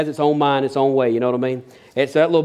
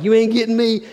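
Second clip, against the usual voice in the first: cheeky bird voice; 7 semitones higher than usual. Pretend. Voicing the bird.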